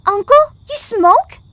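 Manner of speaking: high, loud startled cry; shocked outburst. Acted. Girl catches uncle smoking, loud shocked outburst. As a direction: blurt it out in shock.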